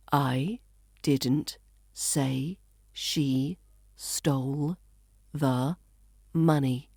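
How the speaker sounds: word by word, slowly, with pauses; langsam vorgesprochen. Shown as a demonstration. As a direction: dictate it slowly, each word on its own. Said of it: "Say this sentence out loud".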